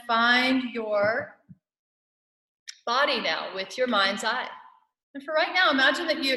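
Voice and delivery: measured meditation guide with spacious pauses; guided meditation. Real, not acted. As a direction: guide listeners into their bodies, phrase by phrase.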